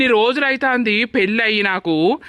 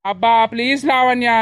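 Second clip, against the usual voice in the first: exasperated, pleading through anger; irritated; 3 semitones higher than usual. Acted. Husband snapping at his crying wife, exasperated. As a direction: shut her down, fed up.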